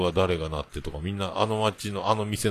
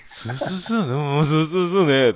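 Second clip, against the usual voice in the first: high-pitched Hakata back-and-forth on "sū"; Hakata "sū" talk; 7 semitones higher, 6 dB louder than usual. Shown as a demonstration. Showing locals chatting with one syllable, Hakata "sū" talk. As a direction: replay the one-syllable Hakata exchange, second answer louder. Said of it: "スーだけで言えるっていうね".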